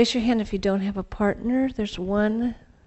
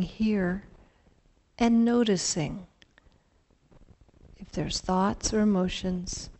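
guided meditation; slower than usual. Acted. Leads a mindful partner exercise.

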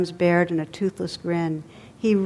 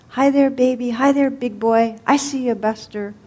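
put-on higher, louder old man calling across the room; old bum calling; 6 semitones higher, 4 dB louder than usual. A narrator's reading. Old bum calls across the diner, higher and louder. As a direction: call out to the baby like a lonely old man.

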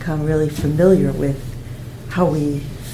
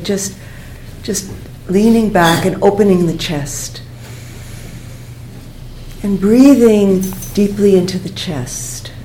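unhurried breathing-exercise guidance with long pauses; guided meditation; 4 dB quieter than usual. Real, not acted. Teacher guiding students to breathe into the chest, calm meditation voice. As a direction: guide them gently through the breath, leaving space.

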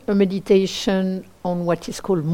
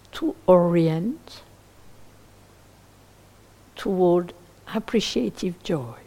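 guided meditation. Acted. Teacher leading listeners toward appreciative joy, in a spacious guided meditation voice. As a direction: guide gently, leaving long silences between phrases.

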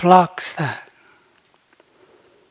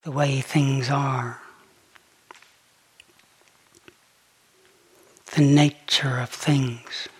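measured meditation voice with long pauses; unhurried, settled phrases, leaving space after each; guided contemplation; 2 semitones lower, 3 dB quieter than usual. Real, not acted. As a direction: lead listeners gently into contemplation. Leads a slow contemplation.

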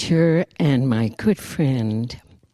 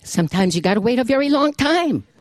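Jewish grandmother. Acted. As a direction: lecture like a wise old Jewish grandmother. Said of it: "written in the voice of the Jewish grandmother".

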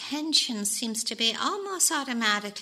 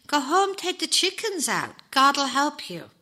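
higher, lilting reassurance; mildly serene storybook rabbi; 6 semitones higher, 4 dB louder than usual. A narrator's reading. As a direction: send him home with untroubled calm. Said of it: "replied the rabbi serenely".

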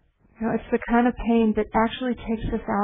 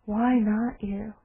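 quiet repeat; much slower than usual. Shown as a demonstration. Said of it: "Can you imagine?".

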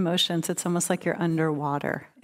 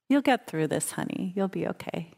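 soft, tender comfort to yourself; gentle reassurance; 3 dB quieter than usual. Acted. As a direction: soothe yourself like a kind friend. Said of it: "can kind of take over and say".

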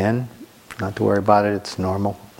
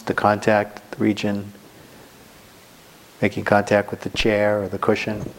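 unhurried meditation guidance with long pauses; guided meditation. Real, not acted. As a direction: guide them gently into the body, phrase by phrase. Leads a sitting meditation.

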